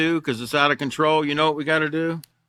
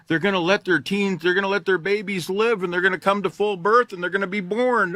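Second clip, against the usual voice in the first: sarcastic mock worry; 4 semitones higher than usual. Sarcastic retelling of expert warning.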